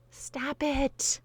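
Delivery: high, breathy whispered plea; whispered stop it. Real, not acted. Host begging nosy askers to quit, whispered. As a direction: hiss it like a fed-up aside.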